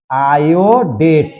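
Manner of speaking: आयोडेट drawn out slowly, each syllable clear; slow teaching answer. Shown as a demonstration. Teacher modelling a chemical name for students, slow and clear. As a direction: spell out आयोडेट slowly for the class. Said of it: "तब क्या पढ़ेंगे इसको?".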